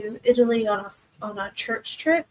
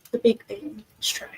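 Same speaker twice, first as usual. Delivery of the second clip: whispered aside; 5 dB quieter than usual. Real, not acted. Aside about going to bed.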